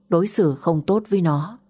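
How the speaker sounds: plain reading voice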